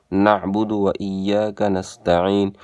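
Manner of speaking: slow recitation with throaty ain in نعبد and نستعین; careful Arabic ain in نعبد; ain clearly sounded. Shown as a demonstration. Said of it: "عین کی آواز ضرور نکالیں".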